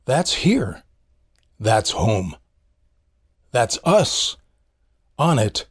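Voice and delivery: awed hushed documentary. Retold or imitated. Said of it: "Sagan wrote".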